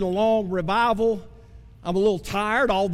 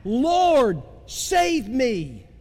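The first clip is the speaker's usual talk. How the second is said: crying out; 2 semitones higher, much slower than usual. Acted. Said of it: "you have cried out".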